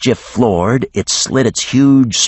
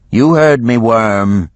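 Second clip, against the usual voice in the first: higher, louder snap at the worm; defiant Geneva; 5 semitones higher, 5 dB louder, slower than usual. A narrator's reading. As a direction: bite back at the dragon. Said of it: "Geneva replied".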